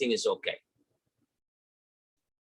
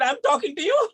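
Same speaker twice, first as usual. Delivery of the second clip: retold retort; 12 semitones higher than usual. Arguing with his sister.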